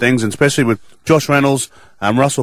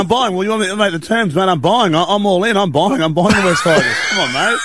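excited; 9 semitones higher than usual. Pretend. Mock auction bidding excitement.

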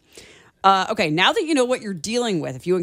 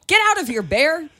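yelling; 8 semitones higher than usual. Shown as a demonstration. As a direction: shout the bear away firmly. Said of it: "Yell at the bear and firmly tell it".

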